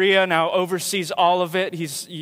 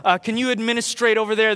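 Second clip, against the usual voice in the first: proper request; 3 semitones higher, 3 dB louder than usual. Retold or imitated. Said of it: "instead of saying".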